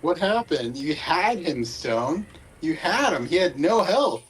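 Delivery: excited disbelief. Real, not acted. Friend reacts to missed kill.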